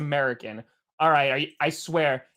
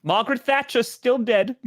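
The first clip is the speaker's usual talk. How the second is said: raised-pitch British newsreader parody; mock British accent; 5 semitones higher than usual. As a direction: announce it in a put-on British accent. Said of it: "now talk like a British person".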